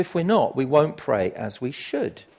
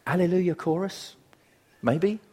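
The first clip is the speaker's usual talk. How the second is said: higher, questioning lift; tentative guess; 5 semitones higher than usual. Retold or imitated. Listener guessing what follows Romans eight, tentative. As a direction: offer it up as an unsure answer.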